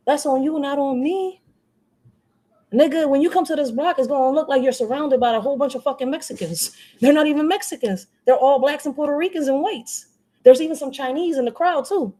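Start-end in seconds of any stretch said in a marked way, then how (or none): 2.7-12.1 heated rant. Real, not acted. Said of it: "Very passionate when I talk".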